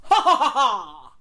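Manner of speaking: loud high maniacal laugh; loud guffaw. Real, not acted. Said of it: "more like a, a maniacal A guffaw".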